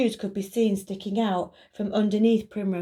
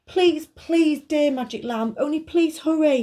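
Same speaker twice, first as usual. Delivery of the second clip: put-on pleading girl voice; 8 semitones higher, 5 dB louder than usual. Emily begging.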